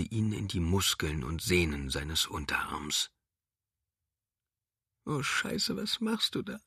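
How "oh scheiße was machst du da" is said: horrified. Acted. Woman horrified at self-cutting.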